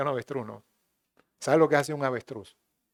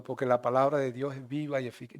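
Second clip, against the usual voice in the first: quiet demo; 4 semitones lower, 8 dB quieter than usual. Shown as a demonstration. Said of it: "yo no estoy diciendo que se deba hablar así".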